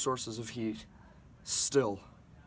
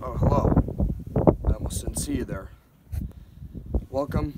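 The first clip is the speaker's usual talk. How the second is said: mock TV host; 10 dB louder than usual. Mock host greeting to camera.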